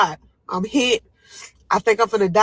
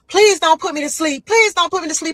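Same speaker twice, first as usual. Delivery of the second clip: frightened begging; 11 semitones higher, 4 dB louder than usual. Retold or imitated. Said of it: "now I'm stressing".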